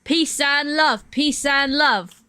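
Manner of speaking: slow, lightly voiced imitation of a musician; mild, slow imitation of a musician; impression of a musician. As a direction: stretch out "Peace and love" slowly, the way the musician says it. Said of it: "That's how he talks".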